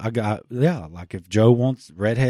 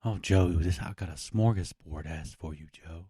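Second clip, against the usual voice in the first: sultry phone sex voice; 3 semitones lower than usual. Pretend. Mock phone sex roleplay.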